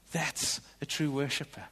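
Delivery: soft whispered praise. Real, not acted. Pastor honouring a late church member, whispering. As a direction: breathe it out, moved.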